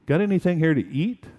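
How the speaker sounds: fast, casual "Got anything here to eat?"; breezy, throwaway question; offhanded. Retold or imitated. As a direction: toss it off lightly. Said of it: "in this rather offhanded way".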